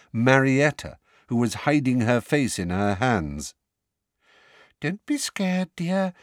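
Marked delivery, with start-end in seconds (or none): 4.8-6.1 soft. A narrator's reading. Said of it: "said Professor Umbridge softly".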